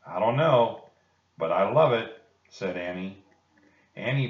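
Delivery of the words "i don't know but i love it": louder, eager delight. Acted. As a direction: gush over the kitten. Annie delighted by kitten.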